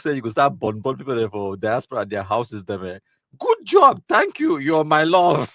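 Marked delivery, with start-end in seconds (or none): 3.4-5.5 very high, loud falsetto thank-you; squeaky lovestruck thanks in falsetto; mock sweet thanks. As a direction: ham up a gushing fan's voice.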